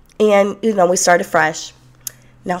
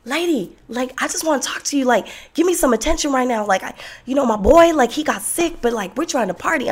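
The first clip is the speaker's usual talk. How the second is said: pushy guy; 6 semitones higher than usual. Retold or imitated. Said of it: "And he's like".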